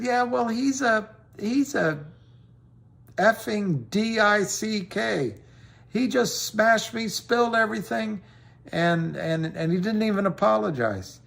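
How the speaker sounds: replaying his own tipsy outrage; drunk and angry. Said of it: "in my fog of anger and drinking".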